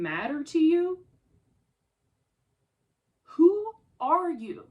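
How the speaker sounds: furious, rising to a loud outburst; enraged accusations climbing in volume; real anger. Real, not acted. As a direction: let the anger boil over at her. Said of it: "I'm so mad".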